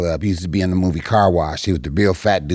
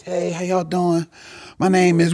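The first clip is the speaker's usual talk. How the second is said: stage greeting; 11 semitones higher than usual. Retold or imitated. Comic greeting the club audience, high cheery stage hello. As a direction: open the set in a high voice.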